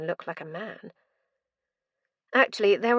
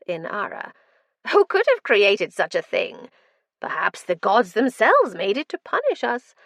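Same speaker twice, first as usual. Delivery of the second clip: loud manic madman; 3 semitones higher, 6 dB louder than usual. Acted. Madman rambling.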